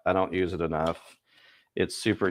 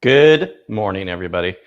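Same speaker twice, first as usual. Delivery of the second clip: loud greeting; 10 dB louder than usual. Real, not acted. Greeting viewers.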